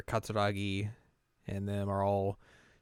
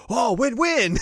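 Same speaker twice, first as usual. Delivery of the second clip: loud, high mock eureka; imitated over-eager outburst; sudden realization; 14 semitones higher, 9 dB louder, slower than usual. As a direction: burst out as it suddenly comes back. Director suddenly remembers his line, retold.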